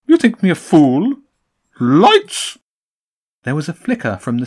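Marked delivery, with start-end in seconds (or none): 0.1-2.6 loud, high bird command; pigeon command shout. A narrator's reading. Pigeon boss calling for lights, loud and high. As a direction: bark out the order.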